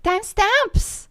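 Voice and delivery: loud, slow disbelief with a laugh; incredulous. Real, not acted. Incredulous outburst.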